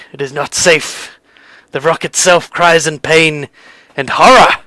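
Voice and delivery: lightly voiced grim seer, halting between phrases; measured, ominous prophecy with long pauses. Stone seer warns visitors of evil in the Underdark, grim. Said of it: "he goes grim-faced and he says".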